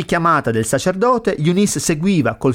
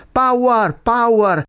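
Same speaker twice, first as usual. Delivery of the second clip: high, punchy exclamation; pitched-up, emphatic refrain; emphatic refrain call; 7 semitones higher, much slower than usual. Acted. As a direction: call it out like a choir's response. Exclaims the song's call-and-response refrain.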